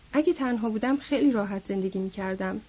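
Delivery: even tone with no emphasis; monotone. A narrator's reading. George telling Lennie of life alone, monotone. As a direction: keep it level, nothing stressed. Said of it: "صدای او یک نواخت بود".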